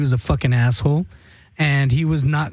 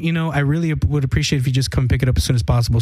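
annoyed curt; 3 semitones lower, faster than usual. Retold or imitated. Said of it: "she sounded not too happy".

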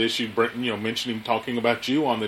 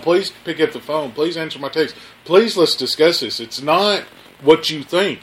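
higher-pitched, insistent mock pleading; retold groveling; 4 semitones higher than usual. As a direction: replay a string of desperate pleases. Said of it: "I begged and groveled and said".

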